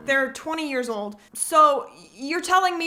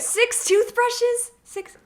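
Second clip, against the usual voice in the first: incredulous; 10 semitones higher, slower than usual. Real, not acted. Incredulous at the clip's claim.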